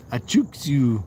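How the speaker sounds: said real fast. Shown as a demonstration. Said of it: "I just said it real fast".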